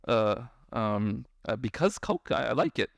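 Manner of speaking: mock flustered adult, low and halting; caught off guard. Adult answering a child about drinking Coke, caught off guard. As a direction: hesitate as if caught out, mildly. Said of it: "caught off guard".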